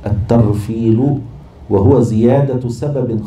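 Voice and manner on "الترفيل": "الترفيل" said slowly, syllable by syllable, with a rise; term spelled out slowly. Shown as a demonstration. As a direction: draw out "الترفيل" so students catch each sound. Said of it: "عند المصطلح الترفيل". (نطق "الترفيل" ببطء ووضوح مقطعًا مقطعًا)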